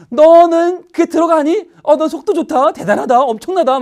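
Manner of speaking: high, loud mock indignation; hammed-up maternal sarcasm, opening drawn out; sarcastic scolding. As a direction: play a mother sneering at the child who eats. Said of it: "막 욕을 바가지로 먹습니다".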